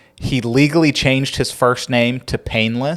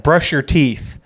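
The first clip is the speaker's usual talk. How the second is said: slow, ominous threat; slow menacing warning; much slower than usual. Retold or imitated. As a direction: drag it out like a threat. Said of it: "where it's like".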